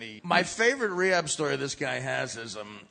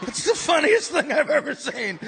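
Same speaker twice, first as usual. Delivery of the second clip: high and laughing; 9 semitones higher, 8 dB louder than usual. Retold or imitated. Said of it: "we're all high going".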